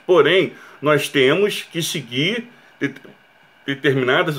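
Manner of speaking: hiccup cutting off the word; stopped by hiccups mid-sentence. Real, not acted. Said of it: "eu tô com soluço". (falando com soluço)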